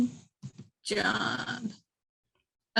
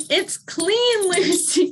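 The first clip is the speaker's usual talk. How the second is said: dog-talk voice; 9 semitones higher, 4 dB louder, much slower than usual. Real, not acted. Talking to the dog.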